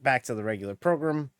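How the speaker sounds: gruff coach leaning on program; college football coach. Pretend. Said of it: "Why am I talking like a college football coach?".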